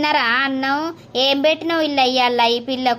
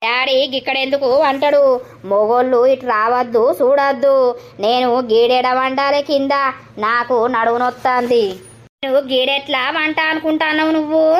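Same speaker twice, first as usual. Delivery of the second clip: harsh scolding. Acted. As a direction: bark the rules at her. Stepmother scolds the frightened girl.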